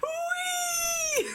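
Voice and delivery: high, squealing mock cry of joy; overjoyed cry. Voicing the joyful Pokémon on the card, high squeal of joy. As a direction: shriek yes like pure delight. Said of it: "J'adore sa tête".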